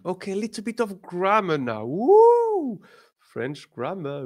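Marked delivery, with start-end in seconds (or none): 1.8-2.8 high, loud whoop; excited cheer. Real, not acted. Teacher hyping the class up for grammar, a high loud whoop.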